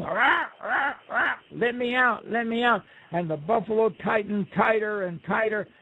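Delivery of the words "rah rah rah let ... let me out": high, strained cries to be let out; trapped buzzard yelling. Acted. Buzzard stuck inside the buffalo, crying out high and desperate. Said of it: "the buzzard was pulling and pulling".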